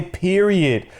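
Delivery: "period" slowly in all syllables; full pronunciation. Shown as a demonstration. Host complaining it's too much work, "period" slowly in full. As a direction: labour through "period", PEER-ee-id. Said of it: "too much work to say".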